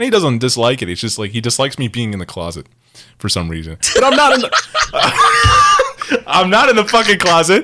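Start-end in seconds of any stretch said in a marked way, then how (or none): 3.9-7.6 emotional, high, loud outburst blurted out through laughter. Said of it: "all the emotions are pouring out".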